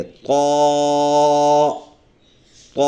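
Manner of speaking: طا with tongue behind the front teeth, full mouth; heavy Toa. Shown as a demonstration. Teacher shows children the heavy letter: full-mouthed طا. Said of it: "اس طرح ادا کریں گے".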